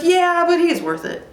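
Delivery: high-pitched little character voice; animal helper. Acted. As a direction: pipe up high in reply. Voicing a second carrier animal.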